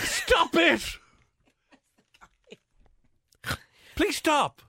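high pleading yelp. Real, not acted. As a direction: cry out high, begging them to stop. Begging cohost to stop.

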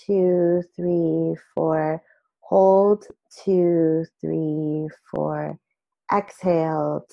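calm, slow counting of breaths. Shown as a demonstration. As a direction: guide a breathing exercise slowly. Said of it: "can I just guide you through a square breathing exercise".

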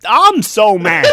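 loud laugh through the words. Real, not acted. Friend echoes the other's complaint while laughing. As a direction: blurt it out mid-laugh.

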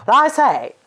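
put-on high, loud old movie transatlantic accent; a glamorous old Hollywood star's transatlantic accent. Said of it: "that weird transatlantic, um, accent that existed just for movies".

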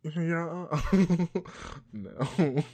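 high, loud giggle fit; case of the giggles. Real, not acted. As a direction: crack up while attempting the voice. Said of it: "I got a case of the giggles".

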